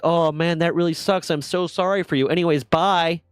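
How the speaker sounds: a West Coast driver's chirpy fake pity; mock nice dismissal. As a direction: sound sorry, then leave. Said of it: "So we're gonna be really nice".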